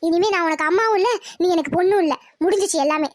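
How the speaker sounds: low, heavy final verdict; grim finality. Acted. Mother tells daughter she is no longer her child, grim finality. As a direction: drop the voice, it's over.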